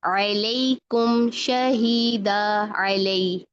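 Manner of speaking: very slow recitation, light L in अलैकुम; spread thin lam. Shown as a demonstration. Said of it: "फैलाएं इसको".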